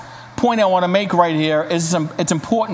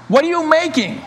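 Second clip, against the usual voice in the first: high, louder anxious cry; 7 semitones higher than usual. Acted. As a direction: call out sharper, more alarmed. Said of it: "cried one even louder".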